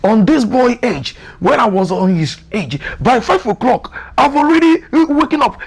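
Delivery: bragging dad. Acted. Dad boasting about his youth.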